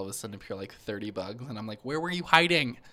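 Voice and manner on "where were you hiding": higher, louder exasperated mock question; mock startled question. Telling friend about bugs on the table, mock startled. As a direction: demand it of the hidden bugs.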